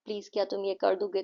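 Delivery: quick, polite pleading demo; soft request. Shown as a demonstration. Teacher showing kids requesting intonation, soft polite request. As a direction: ask a favour gently. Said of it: "आपको किसी से request करनी है".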